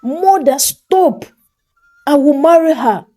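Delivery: walk away from her in anger; angry son. A narrator's reading. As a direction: son defying his mother angrily. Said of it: "he echoed as he walked away in anger".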